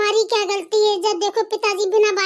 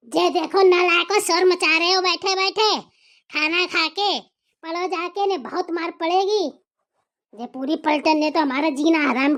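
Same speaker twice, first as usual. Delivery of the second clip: put-on a stern father scolding the children, a bit lower; angry father; 4 semitones lower than usual. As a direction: growl at the naughty kids as the father. Father scolds kids and wife.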